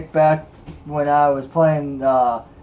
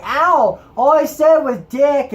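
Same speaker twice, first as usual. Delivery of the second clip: whiny little sister; 10 semitones higher, 4 dB louder, slower than usual. Retold or imitated. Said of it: "And she's like".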